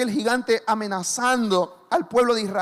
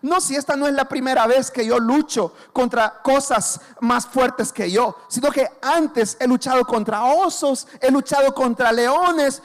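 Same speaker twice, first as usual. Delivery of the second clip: loud, confident, slow in places; bold declaration; 5 dB louder than usual. Retold or imitated. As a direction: declare it like a fearless young fighter. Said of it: "Le dice".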